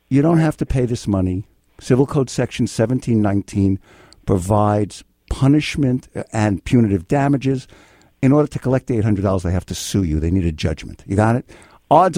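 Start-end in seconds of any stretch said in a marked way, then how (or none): 0.1-9.4 sane voice. Real, not acted. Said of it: "in a sane voice".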